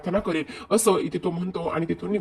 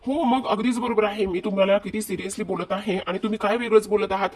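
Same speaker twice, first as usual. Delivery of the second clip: higher-pitched imitated scolding; exasperated; 4 semitones higher than usual. Wife scolding her joking husband, exasperated. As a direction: act out mild exasperation at being joked with.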